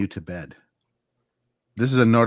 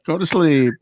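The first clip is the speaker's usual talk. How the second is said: higher, slow comedian voice; W C Fields; 6 semitones higher, slower than usual. Acted. Bedtime tape comedian urging sleep, slow high impression. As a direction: draw it out high in a comic impression. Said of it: "It was, uh, W C Fields".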